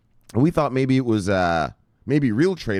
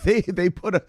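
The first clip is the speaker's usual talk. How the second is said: half-laughing outburst; amused shout; 6 semitones higher than usual. Real, not acted. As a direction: blurt it out in amazement. Laughing disbelief at SEC.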